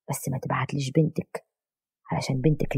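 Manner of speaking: hushed start, only lightly whispered; whispering in ear. A narrator's reading. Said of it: "قرب منها وهمس في ودنها". (همس خفيف في الودن)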